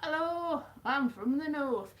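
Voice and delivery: high, loud mock Northern English greeting; attempted Northern accent. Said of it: "I have not mastered any of the accents".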